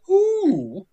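sudden high yelp of alarm; startled who. Retold or imitated. Hartnett to the prisoner, a high startled yelp. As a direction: squeak it out, caught off guard. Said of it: "Hartnett's like".

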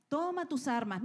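rally them, push it harder; urgent call. Acted.

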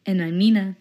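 husky from a cold; hoarse cold voice. Real, not acted. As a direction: speak through a sore throat. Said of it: "Nina's here with her sexy cold voice today".

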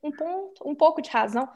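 high reasonable mimic of the boyfriend; mocking boyfriend. Woman mimicking her boyfriend taking the other side in a high, mocking voice. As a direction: raise the pitch and play the calm voice of reason. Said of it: "E aí o mozão falou assim".

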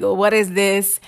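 playfully attempted Jamaican accent; bad Jamaican accent. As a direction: put on a clumsy Jamaican lilt. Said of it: "my bad Jamaican accent".

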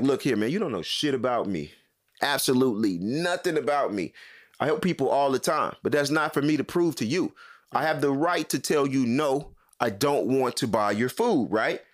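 firm, indignant retort, not shouted; retold angry outburst. Shopper telling off a man who begged, retold outburst. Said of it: "spazzed the fuck out".

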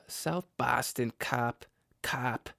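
Boston "cop" with an open ah; Boston accent demo on "cop". Shown as a demonstration. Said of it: "It's the ah sound".

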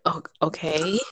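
breathy whisper into the mic. Acted. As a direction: whisper it close to the microphone. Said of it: "breathe into the actual microphone".

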